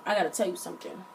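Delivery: low, hushed imitation of a cousin; hesitant confiding. Cousin hesitantly breaks a secret.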